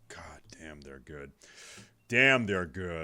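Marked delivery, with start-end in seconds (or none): 0.1-1.3 hushed whispered aside. Real, not acted. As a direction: breathe it under your breath.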